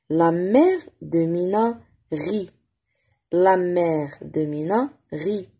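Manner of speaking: "La mère de Mina rit" slow; slow reading model. Shown as a demonstration. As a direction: read slowly with care. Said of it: "reading model for pupils".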